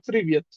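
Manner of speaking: "প্রিভিয়াস" dropped low, short and falling; a quick casual "প্রিভিয়াস" to a friend; Russian greeting demo. Shown as a demonstration. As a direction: teach "প্রিভিয়াস" as the informal hello. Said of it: "নিয়মটাই হলো এই যে".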